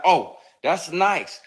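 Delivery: high, slow teasing coo; mocking flirty voice. Imitating the handsy actress, slow and mocking. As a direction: draw it out like a groping flirt. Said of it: "be like".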